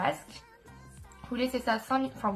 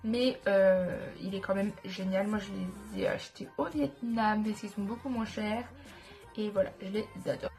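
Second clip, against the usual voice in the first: stuffy nose. Real, not acted. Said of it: "je parle avec, euh, le nez bouché".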